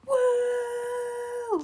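high little woo; excited cheer. Real, not acted. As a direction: cheer for a friend. Kid cheering for friend.

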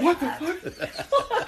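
high, drawn-out disbelief; mock shock, stretched out; baffled reaction. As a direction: imitate a bewildered crowd, slowly. Bystanders' shocked reaction, retold.

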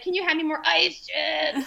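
high request overtaken by a mock push; acted-out body taking over mid-sentence; imitated pushing urge. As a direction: ask normally, then strain through the last words. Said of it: "my body takes over".

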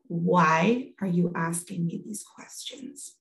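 slow, measured retort; retold fed-up husband, understated; upset husband. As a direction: space out each word in mild exasperation. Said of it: "It's totally upset".

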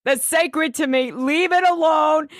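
lightly acted indignant warning; Dorinda. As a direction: build to a mock-stern protest. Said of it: "She's like".

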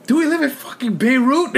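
mock-alarmed dad; amused dad joking; dad's retold quip. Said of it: "He goes".

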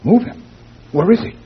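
loud, high alarmed question; alarmed shout. Acted.

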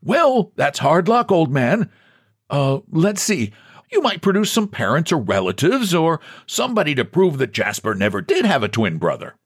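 a touch of would-be sympathy; comforted. A narrator's reading. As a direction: humour him with light consolation. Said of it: "he comforted".

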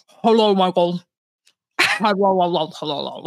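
mock officer greeting; Latrice Royale doing posh. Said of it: "Latrice Royale is like".

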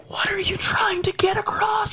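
high-pitched mock bewilderment; squeaky, incredulous put-on question; baffled reaction. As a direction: exclaim it in exaggerated disbelief. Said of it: "and I'm like".

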